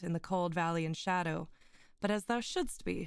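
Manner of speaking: put-on measured, solemn reading of an old tale; story narration. Streamer reading Poe's tale to her chat, in a solemn narrating voice. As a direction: read it like a gothic storyteller. Reads Poe aloud to stream.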